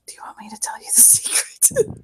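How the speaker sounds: soft conspiratorial whisper. Acted. Drugged patient offering her the secret, whispering. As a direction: offer the secret under your breath. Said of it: "lean in and whisper in his ear".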